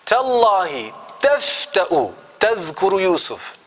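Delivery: stunned, as if they can't believe it; shocked sons. Shown as a demonstration. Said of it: "like they're in shock".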